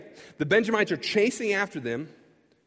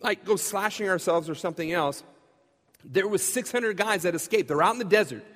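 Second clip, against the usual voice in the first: eager interruption; 2 semitones higher than usual. Retold or imitated. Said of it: "raises their hand and says".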